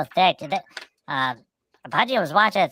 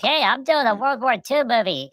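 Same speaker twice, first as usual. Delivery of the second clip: higher-pitched mock eagerness; eager actor; 6 semitones higher than usual. Actors in the waiting room asking for the coach, mock eager. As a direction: play an actor keen to get in.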